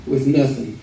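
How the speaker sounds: nothing drawled the Arkansas way; southern Arkansan nothing; Arkansan accent. Real, not acted. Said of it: "I said that in my Arkansan accent".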